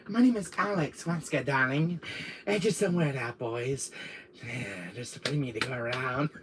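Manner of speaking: lightly voiced coy villainess; Alex Wesker.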